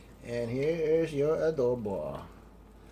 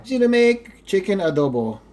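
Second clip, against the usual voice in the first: excited; 6 semitones higher, 8 dB louder than usual. Real, not acted. Excited vlogger announces eating time.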